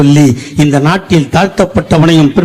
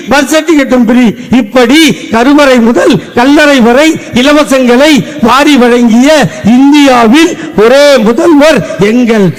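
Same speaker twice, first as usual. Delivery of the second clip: breathless stage oratory. Acted. Comic speaker praising the grandfather's freebies, building breathless oratory. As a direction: rattle off the freebies in one long breath, rising as you go. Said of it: "சொல்றதுக்கே மூச்சு வாங்குது".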